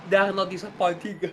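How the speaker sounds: stifling a yawn. Real, not acted. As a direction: yawn slipping into the word. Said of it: "trying to hold that yawn back".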